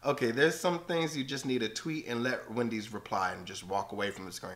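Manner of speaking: ordinary delivery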